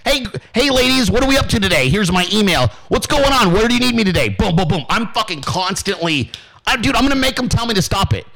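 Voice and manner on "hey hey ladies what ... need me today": upbeat, quick eager volunteer pitch; pumped-up greeting. Retold or imitated. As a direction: burst in all eager to help, fast. Hyping himself to campaign staff.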